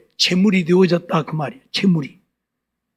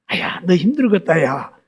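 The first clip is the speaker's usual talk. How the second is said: lower, softening sympathetic aside; mock consoling; 4 semitones lower, 3 dB quieter than usual. Preacher acting out comfort for whoever angered him, mock consoling. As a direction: console the other person in a low voice. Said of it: "그 오히려 위로해줘".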